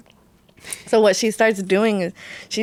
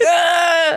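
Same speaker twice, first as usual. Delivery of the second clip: higher mock cry of effort; straining cry; 5 semitones higher than usual. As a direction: cry out like a dog straining to escape. Imitating the dog straining to escape.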